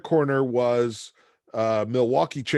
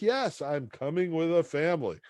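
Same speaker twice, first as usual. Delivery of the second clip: nervous caller; 5 semitones higher than usual. Retold or imitated. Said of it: "I'm like".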